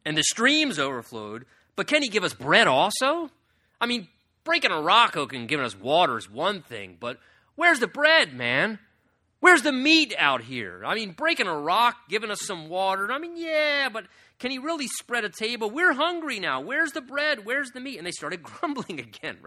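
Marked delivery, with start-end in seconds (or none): 0.1-3.3 mocking grumble. Preacher voicing grumbling Israelites. 3.8-18.0 higher, louder whiny grumble; complaining Israelites demanding bread, whiny and loud. Acted. Preacher acts out complaining people.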